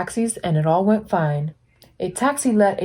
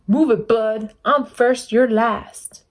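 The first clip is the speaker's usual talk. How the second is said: bossy; 4 semitones higher, slower than usual. Acted. Grocery truck bossing Blue.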